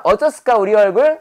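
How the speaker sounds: Jeolla lilt, 어쩌스까 rising; cheeky Jeolla dialect question. Pretend. Teacher drills pun in Jeolla dialect. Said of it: "전라도 말로 말하는 거예요".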